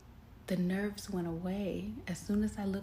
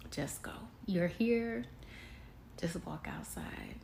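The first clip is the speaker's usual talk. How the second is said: soft urging, almost a whisper at the end; quiet self-talk; 3 dB quieter than usual. Retold or imitated. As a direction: coax yourself softly. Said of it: "And I said".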